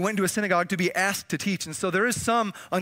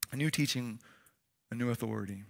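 hushed awe; 8 semitones lower, 9 dB quieter than usual. Acted. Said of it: "hushed repetition".

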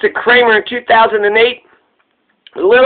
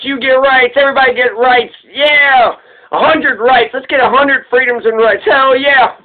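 excited cheering; 3 semitones higher than usual. Acted. Cheering the ideal government.

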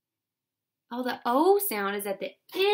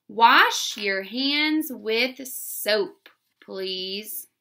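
slow dictation; much slower than usual. Shown as a demonstration. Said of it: "Number two is".

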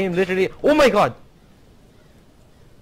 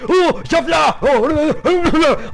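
PewDiePie impression; 11 semitones higher, 7 dB louder, much slower than usual. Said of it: "if I were PewDiePie, I'd be like".

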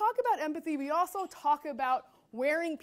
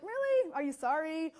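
incredulous. Retold or imitated. Incredulous reply.

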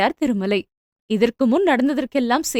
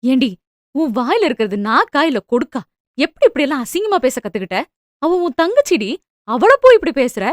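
anguished scolding. Acted. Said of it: "ஆதங்கத்துடன் கேட்டார்".

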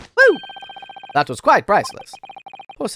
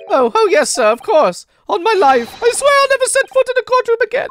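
overjoyed thanks; 11 semitones higher than usual. Acted. Freed prisoner gushing thanks.

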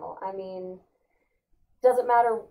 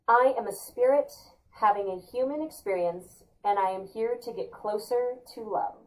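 affirmation read aloud. Shown as a demonstration. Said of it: "I'm gonna read it out loud for everybody".

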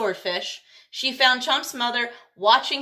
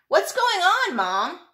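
put-on young Chomp; 9 semitones higher, 4 dB louder, slower than usual. Chomp the child shark asks mom.

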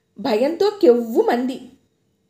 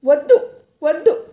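pleading cry; 4 semitones higher, 4 dB louder than usual. A narrator's reading. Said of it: "వద్దన్నట్టు ఏడవసాగింది".

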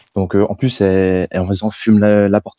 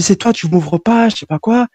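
sister's retort; 11 semitones higher, slower than usual. Retold or imitated. La sœur répond derrière la porte.

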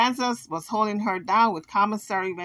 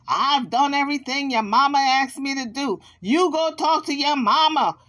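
imitating Jaguar; 4 semitones higher than usual. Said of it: "Jaguar is saying".

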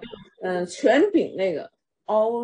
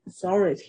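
"authority" with THOR stressed; stress on second syllable; faster than usual. Shown as a demonstration. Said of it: "在第二个音节". (“authority”重音在第二音节 THOR)

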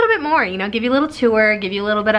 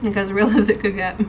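speaking between bites; talking while chewing; 3 semitones higher than usual. Real, not acted. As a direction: mouth partly full. Seen 1: she bit nugget at -5, jaw works, lips pressed between words.

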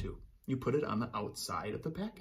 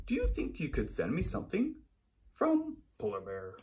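polar bear voice; 4 dB louder than usual. Acted. Reads polar bear's letter.

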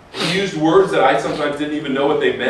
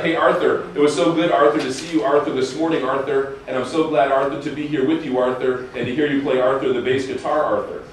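lightly mimicked, name repeated each phrase; imitating Ntombi's prayer. A hint of Ntombi praying to Arthur, every phrase tagged. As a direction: echo Arthur after every few words. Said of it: "it would be like this".

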